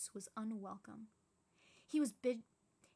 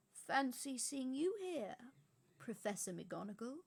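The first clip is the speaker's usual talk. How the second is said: sly and pleased, unhurried; old wizard voice; 3 semitones higher than usual. Acted. Dumbledore greets the cat.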